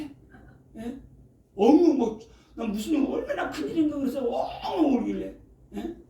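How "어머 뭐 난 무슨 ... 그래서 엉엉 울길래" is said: laughing. Retold or imitated. Laughing at child crying.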